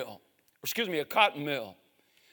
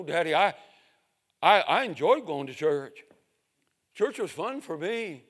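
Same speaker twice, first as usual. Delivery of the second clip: put-on higher child's voice, begging; pleading little boy; 5 semitones higher, 6 dB louder than usual. Little boy begs his father.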